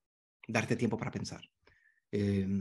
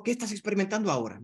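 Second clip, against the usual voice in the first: open question to client; 7 semitones higher, faster than usual. Shown as a demonstration. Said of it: "Entonces yo le pregunto".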